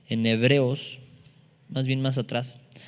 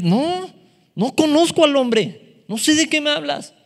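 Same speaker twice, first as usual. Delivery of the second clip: panicked denial; 10 semitones higher, 5 dB louder than usual. Acted. Peter panicked denial acted.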